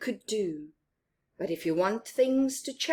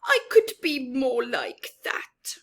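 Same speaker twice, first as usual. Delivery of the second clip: a mouse's secret whispered wish; 4 semitones higher, 3 dB louder than usual. Acted. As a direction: wish it under your breath. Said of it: "thought Mouse".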